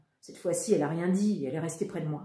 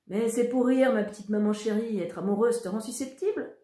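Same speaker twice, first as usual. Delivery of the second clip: playful teasing; 4 semitones higher, 4 dB louder than usual. Acted. Brother teasing mother.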